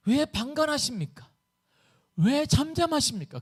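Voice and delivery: high-pitched, aggrieved questioning; protesting cry. Acted. Preacher as Habakkuk challenging God's silence, protesting cry. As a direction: demand an answer from God. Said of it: "하박국은 항변함을 외칩니다".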